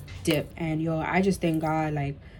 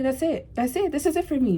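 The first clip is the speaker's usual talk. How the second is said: retold panic; 7 semitones higher than usual.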